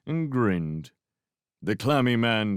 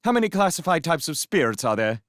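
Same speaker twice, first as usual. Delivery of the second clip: fast, louder rapid-fire quiz; top speed; 8 semitones higher, 5 dB louder, faster than usual. A narrator's reading. Young man quizzing the boy at top speed. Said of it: "spoke at top speed".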